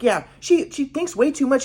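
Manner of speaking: high-pitched mock motherly complaint; imitated critical mom. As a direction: mimic a mother agreeing emphatically. Mimics mom criticizing the sister.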